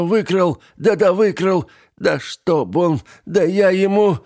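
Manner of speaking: high, loud raging; furious tirade. A narrator's reading. Aunt raging at the thief, furious. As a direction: rage at the thief.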